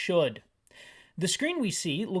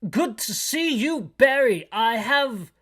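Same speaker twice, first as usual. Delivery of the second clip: higher, louder chief voice; 5 semitones higher, 5 dB louder than usual. Acted. Chief welcoming Barry to an urgent mission, higher and louder. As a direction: greet him higher and louder, all official. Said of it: "This is the chief voice".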